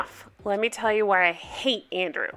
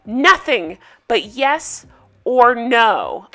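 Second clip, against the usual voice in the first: louder angry lines, the end slowed right down; mock angry cut-off; 5 dB louder than usual. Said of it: "He cuts her off and says".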